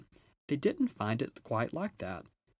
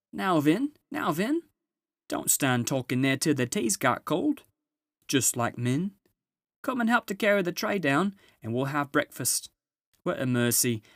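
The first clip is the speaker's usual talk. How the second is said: high, fussy bustling housewife; Missus Beaver; 5 semitones higher, 6 dB louder than usual. Acted. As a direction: shoo them along like a busy mother.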